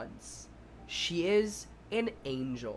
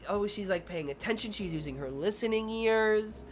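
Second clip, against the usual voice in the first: praising preschool teacher; 4 semitones higher than usual. Retold or imitated. Teacher praising a child who's paying attention, in showy teacher voice. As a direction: imitate a teacher praising for all to hear. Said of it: "I'm like".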